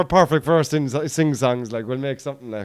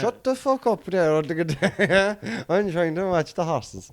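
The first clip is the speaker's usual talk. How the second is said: higher, slow put-on grouch; mock grumpy punter; 4 semitones higher, slower than usual. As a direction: shout down the guitar player, lightly hammed. Grumpy punter at trad session.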